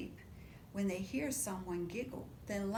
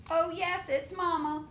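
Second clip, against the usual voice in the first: dramatic reveal; 5 semitones higher, 6 dB louder than usual. A narrator's reading.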